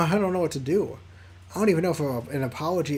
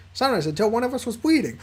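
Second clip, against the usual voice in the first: squeaky Liam voice; 5 semitones higher, 3 dB louder, faster than usual. Acted. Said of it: "the squeaky voice I do for Liam".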